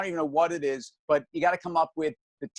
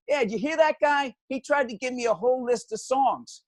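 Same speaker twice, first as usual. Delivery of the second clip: much higher, scoffing DJ voice; mocking DJ; 8 semitones higher than usual. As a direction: ridicule the caller on air. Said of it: "he's like".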